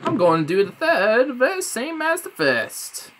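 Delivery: rising, defiant mock declaration; defiant mock rant. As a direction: announce it in a cheeky mock voice. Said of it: "I'm like".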